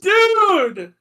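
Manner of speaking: high, drawn-out exclamation; stunned outburst. Real, not acted. Reacting to a friend's wild trade idea, stunned outburst. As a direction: blurt it high in total disbelief.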